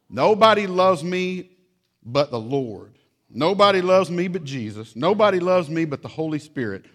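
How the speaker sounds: hammed-up self-pity; melodramatic child. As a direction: wail it like a sulking kid. Child's dramatic lament.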